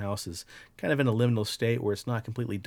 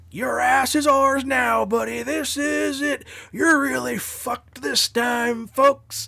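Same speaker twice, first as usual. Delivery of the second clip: very high, loud, drawn-out announcer call; 8 dB louder than usual. Speaker retelling a taunting voice they started hearing; monster truck rally announcer voice. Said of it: "it sounds like a monster truck rally radio announcer".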